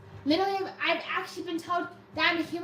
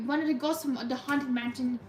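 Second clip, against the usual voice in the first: slightly low, ghostly voice; lowered voice; 3 semitones lower, 4 dB quieter than usual. Shown as a demonstration. Streamer likening own voice to a ghost, lowered. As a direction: lower it a little like a mansion ghost. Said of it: "when I do lower my voice".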